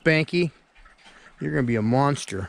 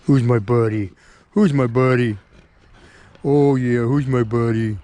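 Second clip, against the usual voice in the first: loud pet-talk to a dog; 5 dB louder than usual. Real, not acted. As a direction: praise the dog cheerfully. Praising the dog.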